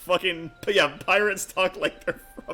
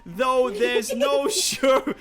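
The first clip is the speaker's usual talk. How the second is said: rally the party with swagger; rough adventurer NPC; 6 semitones higher than usual. Acted. Rough NPC invites onward.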